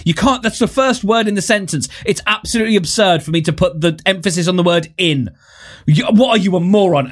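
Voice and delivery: indignant retort. Retold or imitated. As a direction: retell an exasperated outburst with mock indignation. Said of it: "and he's like".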